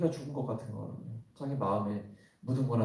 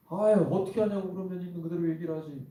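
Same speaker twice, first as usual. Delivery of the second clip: higher-pitched, exasperated acted comeback; mock blaming retort; 6 semitones higher, 4 dB louder than usual. Preacher acting out family members blaming each other, exasperated. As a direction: throw the blame back, voice pitched up. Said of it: "서로가 서로를 비난할 때".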